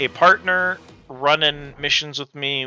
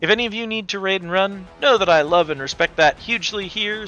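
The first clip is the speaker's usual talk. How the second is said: cute anime streamer; 4 semitones higher than usual. Acted. Greeting incoming raid, tea house host.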